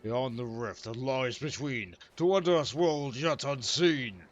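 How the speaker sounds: slow theatrical chant; slow incantation. Acted. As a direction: intone it like a spell. Villain chant read slowly.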